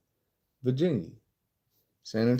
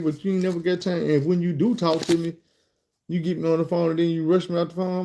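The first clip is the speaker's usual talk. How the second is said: higher voice, lightly imitating his grievance; complaining drunk caller; 5 semitones higher than usual. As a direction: imitate a man pleading his complaint, pitched up. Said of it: "I guess dude was drunk".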